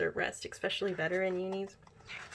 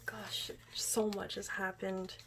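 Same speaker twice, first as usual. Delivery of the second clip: slow hushed aside; slow soft whisper to yourself; wistful whisper; 5 dB quieter than usual. Real, not acted. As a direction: breathe it out slowly. Reflecting on the comeback.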